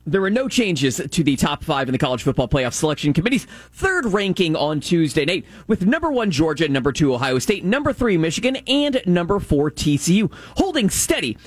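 measured sports update read; sports news read. Real, not acted. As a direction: read the scores like a radio update.

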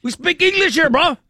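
put-on angry Texan cowboy yelling at a driver in a Hispanic accent. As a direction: yell it in an exaggerated Hispanic accent. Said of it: "with a Hispanic accent".

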